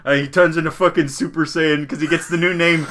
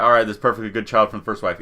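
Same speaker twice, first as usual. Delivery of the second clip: fast, offhand retold verdict; quick dismissive decision; 4 semitones lower, faster than usual. Villagers settling on the heir, quick dismissive decision. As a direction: rattle it off, case closed.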